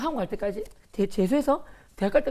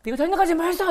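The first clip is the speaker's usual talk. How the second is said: mocking scorn; 7 semitones higher than usual. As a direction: sneer at his answer. Mocking the Buddhist boy.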